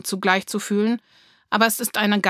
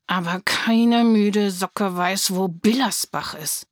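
huffing; slower than usual. Acted. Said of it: "schnaufte Lulu".

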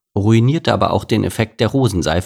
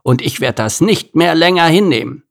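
higher defiant declaration; defiant gorilla; 8 semitones higher than usual. Acted. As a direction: refuse to take it any more. Gerhard rebels.

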